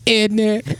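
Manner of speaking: high mock English accent; British crowd cheer. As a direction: imitate a whole English crowd going "innit".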